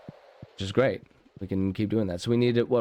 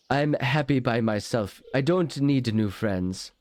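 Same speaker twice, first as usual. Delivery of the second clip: slow hermit voice; 4 semitones higher, slower than usual. Pretend. Reading Linus's line.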